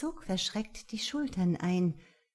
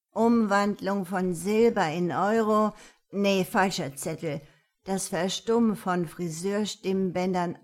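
busy granny muttering to herself; fussy old woman; 6 dB louder than usual. Acted. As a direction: rummage and chatter along.

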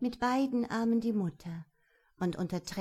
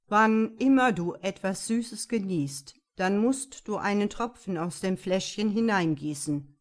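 louder, solemn judge handing down a sentence; stern king; 5 dB louder than usual. Acted. The king tells Röschen her punishment, louder and solemn. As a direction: speak as a grave but merciful ruler.

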